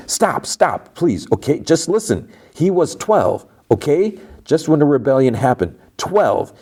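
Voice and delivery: high, urgent plea to stop; urgent pleading. Retold or imitated. Juliet begging Audrey not to shoot, high and urgent.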